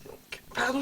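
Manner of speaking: out of breath, panting between phrases; winded from the stairs. Real, not acted. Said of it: "je suis essoufflée".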